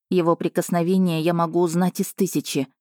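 ordinary delivery

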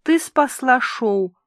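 slow breathless whisper. Acted. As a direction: whisper it in relief. Relieved aside to friend.

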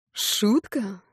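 bitter words pushed through clenched teeth; through gritted teeth. A narrator's reading. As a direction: grit your teeth and spit it out. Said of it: "цедит сквозь зубы Октавий".

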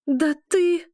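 high, loud furious cry; sudden high, loud outburst. A narrator's reading. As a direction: burst out at him. Heroine explodes at the werewolf.

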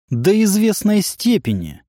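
openly mocking, sneering. A narrator's reading. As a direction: sneer it with open mockery. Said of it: "откровенно издевательским тоном".

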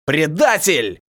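short, loud growl of "Предатель"; growled accusation. Acted. Elder captive growls at the turncoat, short and loud. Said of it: "зарычал старший сурвак".

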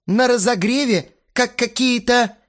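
high, loud, halting outrage; sputtering indignation. A narrator's reading. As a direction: stumble for words in outrage. (захлёбываясь от возмущения)

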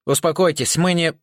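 trying to stop a fight; urgent plea. Acted. Rika, dodging instruments, urgently calling for calm. Rika calming a panicked double.

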